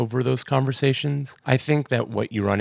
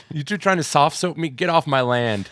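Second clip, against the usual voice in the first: put-on fast, higher grumpy old man; grumpy old farmer; 5 semitones higher than usual. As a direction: snap it like a cranky farmer. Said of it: "he goes".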